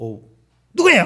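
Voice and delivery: loud, shrill, curt, snappish voice. Imitating a pastor's wife answering a dawn phone call, sharp, shrill, mock-curt voice. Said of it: "이래 목소리가 아주 앵칼진 목소리".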